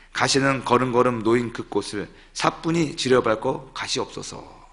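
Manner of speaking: measured, slightly low poetry recitation; poem reading. Shown as a demonstration. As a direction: recite a well-loved poem with feeling. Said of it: "한번 제가 읽어드릴까요".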